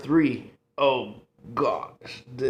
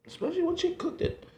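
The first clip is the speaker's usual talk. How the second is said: excited; 3 dB quieter, faster than usual. Real, not acted. Repeats the line.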